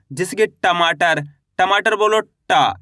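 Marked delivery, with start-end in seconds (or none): 2.2-2.8 टा slow, with a long open vowel; letter pronunciation demo. Shown as a demonstration. Teacher taking the letter out of an example word, slow demonstrative टा. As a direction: stretch टा out as a model syllable. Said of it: "इस तरीके से इसका टा का उच्चारण होता है".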